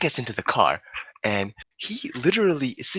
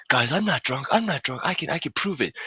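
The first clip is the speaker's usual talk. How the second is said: put-on higher-pitched insistent drunk; imitated drunk friend; 6 semitones higher than usual. Drunk scholar swears to friends he's sober, pleading drunk impression. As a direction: mimic a drunk guy protesting his innocence. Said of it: "what happens with Prasanth while he was drunk".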